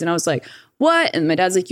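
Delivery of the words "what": sharp, much higher startled "What?"; a kid caught off guard, blurting it out; high yelp of disbelief; shocked what. Retold or imitated. Kid hearing of new siblings.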